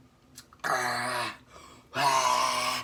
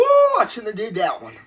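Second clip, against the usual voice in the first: pained talk through burning mouth; mouth full of hot food; 3 semitones higher, 5 dB louder than usual. Real, not acted. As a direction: speak with a scalded mouth. Spicy food burning his mouth.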